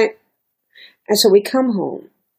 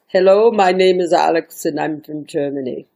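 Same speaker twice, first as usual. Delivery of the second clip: put-on lightly done German accent; a so-so German accent for the visitor; self-admittedly weak German accent; 3 semitones lower than usual. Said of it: "forgive my accent, it's not the greatest".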